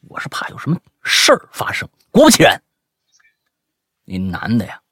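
animated, high-pitched storytelling, building suspense; dramatic story reading. Acted. Host reading a listener's scary night-chase story, dramatic and animated. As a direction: read the chase like a thriller.

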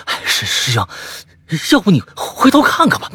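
结巴后音调猛地拔高; 吓得结巴，央求对方回头; 害怕的请求. Acted. 小白怯怯求师兄回头. (小白结巴着央求师兄回头看，声音发颤拔高)

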